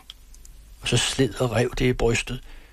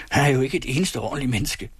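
swearing; 3 semitones higher, faster than usual. Acted. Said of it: "bandede stygt".

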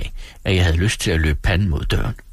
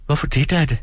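høj, uskyldig pigestemme; spørg sødt og naivt som Dora; uskyldig ung kone; 7 semitones higher than usual. Acted. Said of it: "spurgte Dora og så uskyldigt". (uskyldig, høj pigestemme)

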